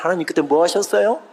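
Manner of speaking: accusing prayer. Retold or imitated. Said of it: "삿대질 기도".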